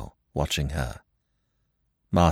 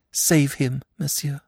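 raised, urgent plea; pleading cry; 8 semitones higher than usual. Acted. Martha kneeling before Poirot, crying out to save him. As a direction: beg him to save her lover. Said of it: "she cried".

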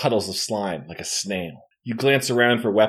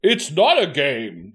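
hollow mechanical voice; 3 semitones higher than usual. Acted. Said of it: "in a hollow mechanical".

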